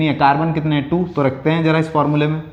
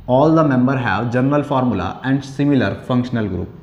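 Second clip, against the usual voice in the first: each word spaced out slowly for note-taking; slow dictation; much slower than usual. Shown as a demonstration. Teacher dictating the definition to students, very slowly. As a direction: read it out slowly so students can write. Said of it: "teacher dictating full definition".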